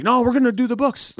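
high, firm no to the movies; mock firm refusal. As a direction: shut the idea down playfully. Refusing wife's movie suggestion.

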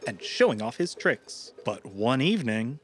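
story narration voice; epic fantasy narrator. A narrator's reading. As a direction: open the tale like a fable narrator.

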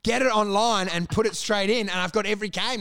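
mock disbelief at his ex; exasperated. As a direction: rant at his ex for upgrading the Xbox, incredulous. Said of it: "and I'm like".

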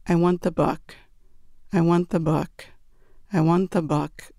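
flat, repetitive robotic chant; like a record in a scratch; robotic monotone. Retold or imitated. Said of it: "It was so robotic".

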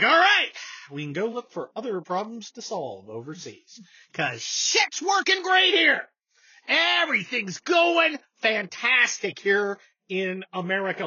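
mock cheer. Mocking politicians' complacency.

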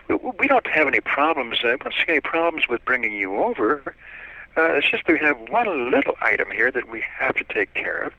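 a hint of a high, prim officer; mock-official, polite little voice; quiet little voice. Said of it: "kind of a quiet little voice".

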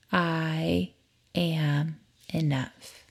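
slow, soft, sincere affirmation. Acted. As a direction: say it slowly and gently. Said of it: "Say it with me again".

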